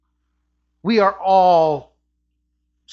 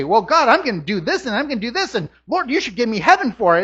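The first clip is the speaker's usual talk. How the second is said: rapid, higher sing-song pleading; mock bargaining; 4 semitones higher, 3 dB louder, faster than usual. Believer listing deeds to claim heaven from God, mock bargaining.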